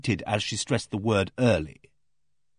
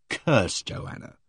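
whispered curse; much slower than usual. A narrator's reading. Narrator's private angry thought.

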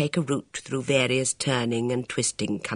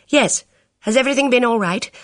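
put-on young woman voice; 10 semitones higher, 6 dB louder than usual. Elvira voiced on phone.

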